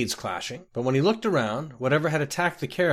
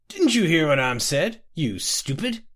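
put-on drunken irritation; 5 semitones higher, 3 dB louder than usual. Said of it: "Scotty felt a surge of rage".

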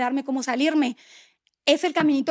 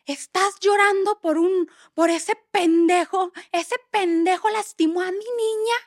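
slow, higher, indignant dad; slow, indignant, higher dad's outburst; outraged father; 4 semitones higher, slower than usual. Retold or imitated. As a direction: protective father fuming at the ex. Father slams table, outraged.

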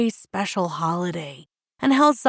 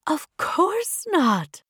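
slow, higher, tender reassurance; reassuring; 9 semitones higher, slower than usual. A narrator's reading. Mother promising daughter it isn't silly, reassuring. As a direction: reassure a child, stretching it out. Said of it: "Amma promised her".

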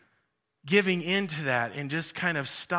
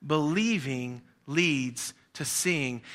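call and response; 2 semitones lower, slower than usual. Shown as a demonstration. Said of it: "Say that with me".

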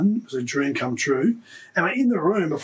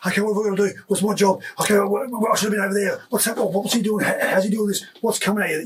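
higher, rushed panicky thoughts; overwhelmed inner thoughts; 6 semitones higher than usual. Retold or imitated. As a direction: relive the sensory overload, pitched up. Inner panic on Origin debut.

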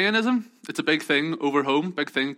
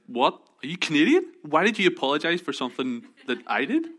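higher-pitched mock bafflement; baffled; 5 semitones higher than usual. Rental clerk questioning his needless apology, mock baffled. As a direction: imitate a puzzled questioner.

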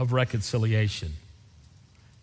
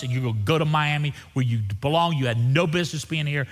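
fussing at him; 2 semitones higher than usual. Retold or imitated. Preacher scolding Sam at the bus station, fussing. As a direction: lay down the law, word by word at first. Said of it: "I started fussing at him again".

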